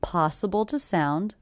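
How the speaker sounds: "to" as a quick schwa in "Possible to sound"; weak, unstressed "to" with a schwa vowel; reduced "to". Shown as a demonstration. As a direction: shrink "to" to "tuh" between "Possible" and "sound". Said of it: "reduced to the schwa".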